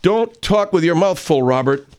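high, loud and slow scold; mock yelling. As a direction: scold him like a stern parent. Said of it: "you gotta start yelling at Robert".

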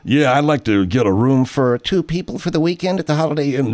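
lightly put-on caller voice; phone in a reservation; voice through the nut squeezer. Lightly voiced caller booking a hotel through the voice changer. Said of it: "Just go".

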